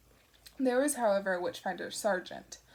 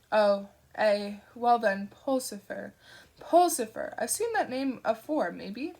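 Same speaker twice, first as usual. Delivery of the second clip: vaguely disappointed; 5 dB louder than usual. Acted. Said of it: "sounded vaguely disappointed".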